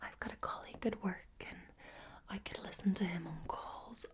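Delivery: steady breathy ASMR whisper, close to the mic; ASMR whisper welcoming viewers to an accent video. Real, not acted. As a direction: whisper it all like a tingle video.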